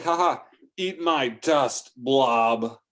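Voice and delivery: slow, drawn-out gloating jeer; gloating taunt. Retold or imitated. Trucker passes the blob and gloats, slow taunt. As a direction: savour the win, slowly rubbing it in. Taunting rival after passing.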